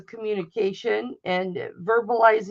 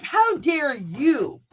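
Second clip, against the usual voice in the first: indignant retort; 3 semitones higher, much slower than usual. Retold or imitated. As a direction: throw it back at her, outraged. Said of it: "I'm like".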